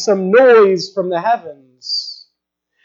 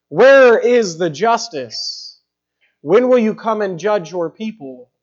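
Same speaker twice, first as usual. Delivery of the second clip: pleading cry. Retold or imitated. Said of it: "he cries out to God".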